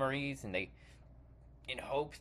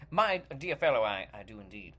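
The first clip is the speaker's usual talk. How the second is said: put-on British accent; 5 semitones lower than usual. Actor's British accent in sketch.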